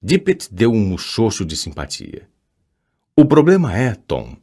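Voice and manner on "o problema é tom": sighing. A narrator's reading. Headmaster to pupil about a problem, sighing. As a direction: let the phrase fall away like a sigh. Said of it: "suspirou ele".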